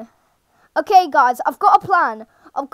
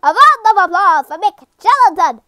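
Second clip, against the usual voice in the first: loud, hammed-up announcer attempt; Albert; 3 semitones higher, 6 dB louder than usual. Game character presenting a hero to a crowd, lightly voiced Albert. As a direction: call for applause in a lightly put-on voice. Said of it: "I can't do an Albert voice".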